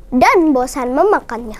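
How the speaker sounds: ordinary delivery, nothing marked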